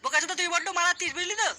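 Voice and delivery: touchy, worked-up retort; irritated warning. Acted. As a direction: warn a friend off, mildly angry. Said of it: "একটু শান্ত হ".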